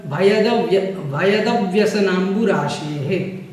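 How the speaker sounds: भयदव्यसनांबुराशेः broken then said whole, slowly; slow careful pronunciation. Shown as a demonstration. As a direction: build up भयदव्यसनांबुराशेः syllable by syllable. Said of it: "इस प्रकार से इसका उच्चारण". (भयदव्यसनांबुराशेः का धीमा उच्चारण)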